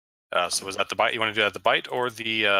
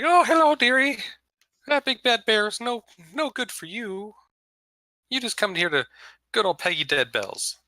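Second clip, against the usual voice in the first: put-on high old witch voice, singsong; elderly singsong; 11 semitones higher, 3 dB louder than usual. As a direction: coo like a sly old hag. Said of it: "She's like".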